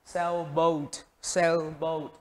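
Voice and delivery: Sailboat with SAIL stressed; stress on first syllable. Shown as a demonstration. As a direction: model Sailboat slowly for learners, weight on the first syllable. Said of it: "nhấn vào âm một".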